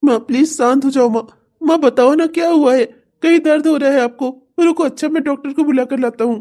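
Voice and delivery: high, worried coaxing; anxious pleading. Acted. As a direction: try to calm her, pleading. Son calming crying mother.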